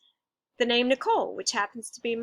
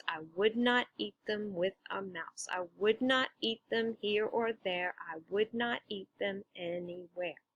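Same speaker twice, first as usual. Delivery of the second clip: rhythmic verse reading; 5 dB quieter than usual. Shown as a demonstration. Reads rhyme to show the beat.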